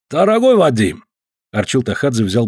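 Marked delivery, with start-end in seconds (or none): 0.1-1.0 put-on Caucasian accent. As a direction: stretch each word with a heavy Caucasian accent. Georgian visitor voiced.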